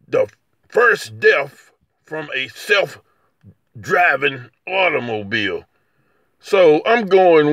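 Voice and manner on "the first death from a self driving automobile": measured mock report delivery; drawn out with pauses, falling at the end; slow, deliberate quote. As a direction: spell out the report word by word. Quoting a report on the crash.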